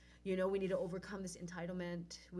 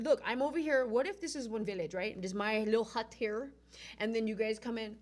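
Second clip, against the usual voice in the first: loud, pressing explanation; heated retelling; 6 dB louder, much faster than usual. Retold or imitated. Retelling how she lectured the festival organizers, loud and pressing. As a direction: drive the point home loudly.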